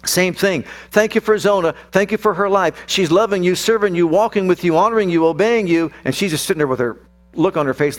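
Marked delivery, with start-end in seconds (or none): 0.9-5.9 fervent retold grace. Father saying grace over his daughter.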